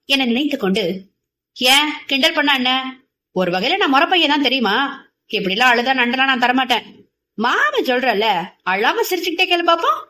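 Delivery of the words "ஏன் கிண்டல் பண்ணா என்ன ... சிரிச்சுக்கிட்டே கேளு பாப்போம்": louder, playful needling; teasing. Acted. Boy teases the crying girl, playful needling. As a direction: needle her for fun. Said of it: "வம்பிழுத்தான் உதி".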